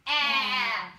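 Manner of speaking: Ah pushed from the throat, a bit gross; throaty pushed Ah. Shown as a demonstration. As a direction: push the Ah out from here. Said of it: "you're gonna go like this".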